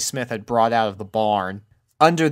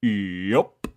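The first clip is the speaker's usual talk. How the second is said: Big Mac voice; 2 semitones lower, 3 dB quieter than usual. A narrator's reading. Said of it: "answered Big Mac".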